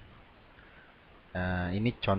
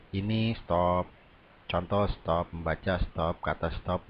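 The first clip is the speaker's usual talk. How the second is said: stopping after every word. Shown as a demonstration. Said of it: "Membaca seperti ini ibarat".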